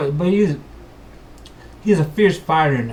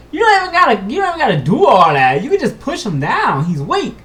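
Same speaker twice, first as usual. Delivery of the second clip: louder, higher protest; indignant plea; 11 semitones higher, 8 dB louder than usual. Acted. Player protesting to the game master, louder. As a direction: plead that it is overkill.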